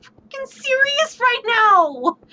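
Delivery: disbelief building to an exasperated outburst; exasperated disbelief at the party; incredulous. Retold or imitated. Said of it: "I'm standing there looking at everyone like".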